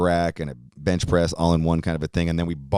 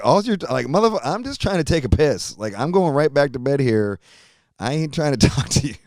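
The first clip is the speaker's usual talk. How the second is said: higher, mock annoyed half-asleep retort; irritated reply; 5 semitones higher than usual. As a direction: snap back sleepily. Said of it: "I'm like".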